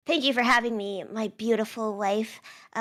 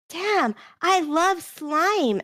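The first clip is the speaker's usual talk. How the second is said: delighted; 5 semitones higher, much slower than usual. Retold or imitated. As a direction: gush with slow delight. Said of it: "I was like".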